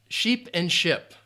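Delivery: sheep with long E, ship with short I, drawn out; minimal-pair demo. Shown as a demonstration. Teacher showing students sheep versus ship, slow careful contrast. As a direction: say sheep and ship slowly, vowels clearly apart. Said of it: "how do you pronounce".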